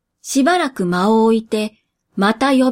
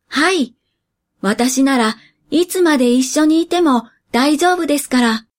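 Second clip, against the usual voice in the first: put-on cheerful boy voice; 3 semitones higher than usual. Boy answers brightly.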